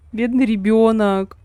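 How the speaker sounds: slow, stretched pity on бедный; mock pity catchphrase. Shown as a demonstration. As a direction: lean on бедный with mock sorrow. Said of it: "это я так фразу такую постоянно повторяю".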